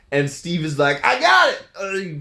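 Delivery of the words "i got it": high, loud cry as he dives on it; heroic shout. Retold or imitated. Steve yelling as he dives on the grenade, high shout. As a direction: yell it like you're throwing yourself on a grenade.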